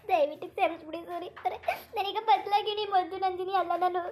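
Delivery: begging her husband's forgiveness while crying; tearful pleading. Acted. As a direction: plead through rising sobs. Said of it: "ಮೊದ್ಲು ನೀವು ಕಣ್ಣೀರ್ ಒರೆಸ್ಕೊಳ್ಳಿ".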